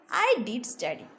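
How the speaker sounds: did pressed firmly; stress on did. Shown as a demonstration. Teacher modelling emphatic did, stress on did. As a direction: lean on did. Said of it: "here we are stressing and say I did".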